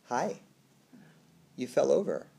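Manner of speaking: acted calm parent, leaving long pauses; imitated gentle parent. Parent gently addressing fallen toddler.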